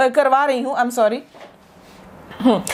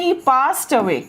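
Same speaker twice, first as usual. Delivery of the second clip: slow model phrase; much slower than usual. Shown as a demonstration. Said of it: "याद रखना क्या phrase है".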